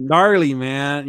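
lightly imitated surfer bro, drawn out; slow mock surfer-bro quote; quoted surfer slang. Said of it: "one of the words that they kept saying".

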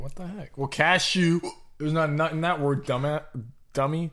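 talking through hiccups; hiccuping between words. Real, not acted. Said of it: "Do you have the hiccups now?".

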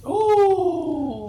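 high shouted ooh; excited ooh. Real, not acted. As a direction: hoot with excitement. Reacting to Velveteen Dream.

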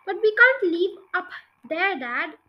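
put-on reading a children's book aloud; story narration. A narrator's reading. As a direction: tell it like a bedtime story. Reads a children's book chapter.

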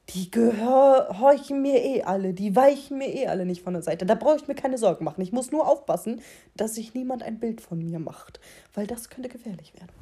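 selbstgefällige Gottesstimme, laut; leicht gespielter allmächtiger Gott; Gott spricht. Retold or imitated. God quoted in his thoughts. (überhebliche Gottesstimme)

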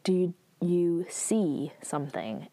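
hushed, breathy whisper of a question. Acted. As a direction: whisper it as if the guards mustn't hear. Queen questions Aro privately.

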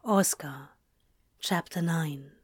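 lightly deepened, measured announcement; Oscar. Shown as a demonstration. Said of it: "here goes".

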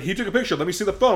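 high-pitched mock angry demand; imitated yelling. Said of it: "yelling the entire time".

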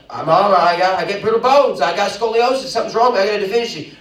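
high, loud mock complaint to mom; whiny teenager. Teenager with sore knees complaining to Mama, hammed-up whine. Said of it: "And you're like".

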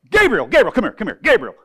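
Jesus gleefully summoning Gabriel, laughing; eager calling with a laugh. Retold or imitated. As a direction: shout for Gabriel, laughing with delight. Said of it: "picture Jesus doing this".

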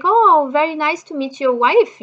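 lifted, effusive polite hello; retold gracious greeting. New friend meeting the husband, imitated effusive politeness.

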